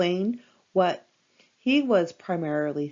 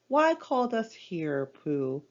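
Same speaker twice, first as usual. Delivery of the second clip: squeaky. Acted. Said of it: "squeaked Roo".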